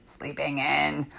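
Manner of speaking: slow, drawn-out sleeping in; slow savour. Real, not acted. Host to listeners, slowly savouring the idea of sleeping in. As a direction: stretch it out, savouring it.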